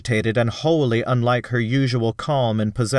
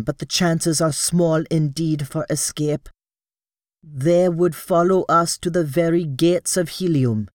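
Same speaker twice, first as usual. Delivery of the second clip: higher, grave foreboding; grim Thark woman; 5 semitones higher than usual. Acted. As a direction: warn of pursuit gravely. Sola weighs the danger.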